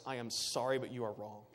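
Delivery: soft, gentle, quiet apology; loving and sincere. Pretend. Preacher telling outsiders, softly and lovingly. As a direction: break the hard news tenderly. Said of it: "we say lovingly and, and genuinely".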